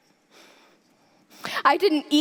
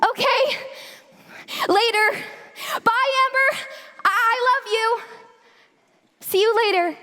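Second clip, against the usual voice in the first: choked-up tearful goodbye; tragic heroine sorrow; 5 semitones higher, faster than usual. Acted. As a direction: voice catching with tears.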